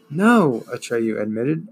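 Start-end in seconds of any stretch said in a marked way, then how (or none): 0.1-0.6 loud. A narrator's reading. Atreyu answers loudly.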